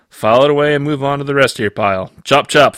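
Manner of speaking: brisk order. Acted. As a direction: hurry the staff along. Supervisor hurries staff.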